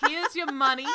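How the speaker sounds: hammy, failed Irish brogue; Irish cop by way of the Bronx; botched Irish cop accent. Acted. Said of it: "this accent's amazing".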